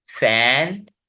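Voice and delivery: फैंटास्टिक broken into fan, tas, tik; फैंटास्टिक with stretched, separated syllables. Shown as a demonstration. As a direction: pause between the beats of फैंटास्टिक. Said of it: "तीन वेवल sounds हैं".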